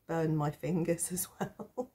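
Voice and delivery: words tipping into a giggle; rueful chuckle at your own clumsiness; laughing at oneself. Real, not acted. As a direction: trail off into real laughter. Laughing at her own mishap.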